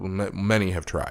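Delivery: put-on deadpan delivery. Retelling a character's answer to a threat: imitating a dry reply. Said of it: "he responds very dryly".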